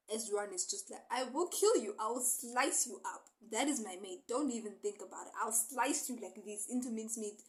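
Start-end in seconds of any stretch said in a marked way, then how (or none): 1.1-7.4 louder, hammed-up jealous threat; lightly acted menace, pushed louder; mock possessive threat. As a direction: play an overprotective lover warning off rivals. Acted threat from a protective lover.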